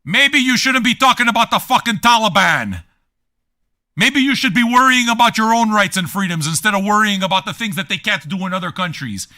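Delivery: high, loud heated lecturing; heated rant. Real, not acted. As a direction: push the point hard and loud.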